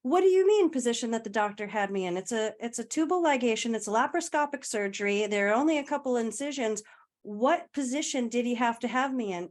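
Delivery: brisk, matter-of-fact rapid-fire questioning; matter-of-fact challenge. Retold or imitated. Groggy patient challenging the nurse's explanation, brisk and matter-of-fact. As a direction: reel off the surgical facts briskly, questioning the explanation. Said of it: "matter of fact mode of".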